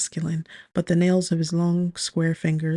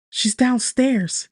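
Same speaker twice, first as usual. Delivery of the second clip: high, drawn-out, louder outburst; excited shriek; 7 semitones higher, 4 dB louder, much slower than usual. A narrator's reading. Roommate news arrives by message, excited shriek. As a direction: blurt it in a high-pitched panic. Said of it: "I shriek".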